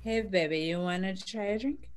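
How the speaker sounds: seductive murmur; flirty. Acted. Improv flirt with judge.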